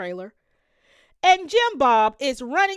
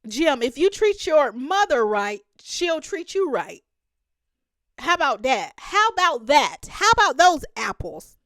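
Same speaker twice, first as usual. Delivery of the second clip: scolding challenge; 3 semitones higher, 5 dB louder than usual. Real, not acted. Scolding Jim, rising.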